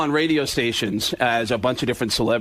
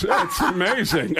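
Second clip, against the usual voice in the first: slow, halting verdict; Christopher Walken; 3 semitones higher, slower than usual. Retold or imitated. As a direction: draw it out slowly in his voice. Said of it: "And Walken goes".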